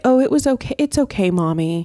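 put-on high little-kid voice; lightly voiced child; imitating a child. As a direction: mimic a small child reassuring mom. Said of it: "I don't expect them to say".

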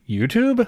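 "YouTube" pitched high as a mock question; mimicked questioning tone. Co-host mimicking the host's "YouTube" said like a question. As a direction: parrot "YouTube" back as an exaggerated question. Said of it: "saying it like a question".

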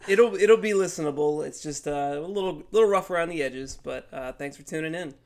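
stuffy nasal sinus voice. Real, not acted. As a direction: talk through a blocked nose. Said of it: "he's extra nasally today".

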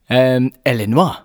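Illinois said ill-in-WAH, French style; Illinois with a French ending, ill-in-wah. Shown as a demonstration. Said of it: "You're still saying it weird".

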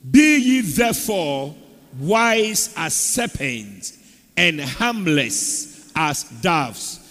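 slow, measured scripture reading. Acted. Preacher leading the church in reading aloud together, slow scripture reading. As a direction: read out deliberately in spaced phrases.

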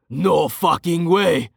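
high, drawn-out exclamation; slow, high-pitched astonishment; shouted disbelief. A narrator's reading. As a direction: cry out in stunned disbelief, stretching the words. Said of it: "Anton shouted".

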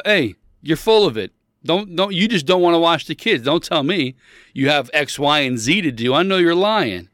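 acted indignant accusation; confrontational. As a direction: call out their excuse, worked up. Acts out calling someone a liar.

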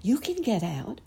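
put-on high little girl. A narrator's reading. Little girl encouraging trapped rabbit, high little voice. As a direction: pipe up encouragingly, pitched high. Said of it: "said a soft little voice".

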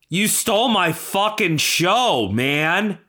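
high-pitched indignant demand; aggrieved accusation. Acted. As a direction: plead and accuse at once. Accuses rival again.

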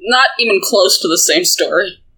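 talking through a mouthful of snacks; chewing while speaking; mouth full. Real, not acted. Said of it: "I can hear you have food in your mouth".

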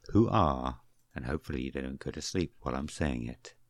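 low, soft, lulling murmur; mock sultry bedtime voice. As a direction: lull them to sleep, a bit too seductively. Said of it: "Why are you making it sound sexual?".

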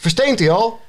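high, called-out question; Gozert calling eagerly. A narrator's reading. Gozert checking whether the troll turns to stone, called out. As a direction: ask it in a high, storybook call. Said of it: "schreeuwde Gozert".

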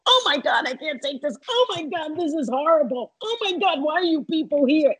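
high mock yell of outrage; mock screaming. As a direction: imitate a horrified fan wailing at ringside. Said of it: "She's screaming in the front row".

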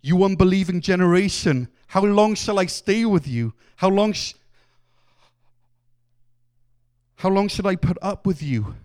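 the weary scolding of a parent facing a messy room again; frustrated, fed-up rebuke; frustrated Jesus. Shown as a demonstration. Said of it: "you can just hear Jesus's frustration".

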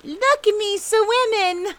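very high, loud, drawn-out squeal; high-pitched childlike boast; squeaking Roo. A narrator's reading. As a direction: squeal it like a delighted little joey. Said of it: "squeaked Roo".

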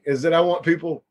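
talking through hiccups; words broken by hiccups. Real, not acted. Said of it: "I've got hiccups this entire time".

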